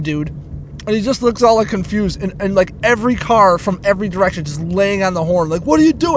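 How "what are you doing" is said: high-pitched exasperated yell, retold; mock yell at a stalled driver; retold scream. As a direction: re-enact screaming from the car. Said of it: "I screamed".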